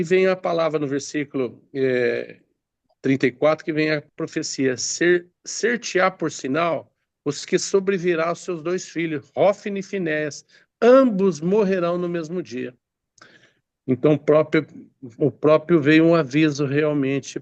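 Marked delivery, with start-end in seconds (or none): 4.8-12.7 slightly raised, deliberate Bible reading; scripture reading. Acted. Preacher reads the sign about Eli's sons, scripture reading. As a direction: read out the prophecy verse by verse.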